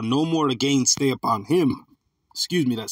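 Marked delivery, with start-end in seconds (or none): 0.0-1.9 slow, emphatic scripture reading; scripture read aloud. Real, not acted. Preacher reading Isaiah to his listeners, proclaiming it slowly. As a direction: proclaim the verse to the congregation, drawn out. Reads the found verse out.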